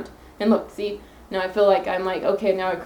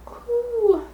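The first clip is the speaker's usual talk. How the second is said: tearful exhale. Real, not acted. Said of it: "my crybaby attitude".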